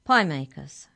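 loud, stern address. A narrator's reading. Hex checker addressing two giants, stern. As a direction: call them to account sternly. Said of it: "She addressed the two giants sternly".

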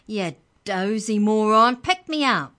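loud high squeal of protest; squeaky yell. Acted. The dropped book elf yells, high and loud. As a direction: cry out as you fall. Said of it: "the voice yelled".

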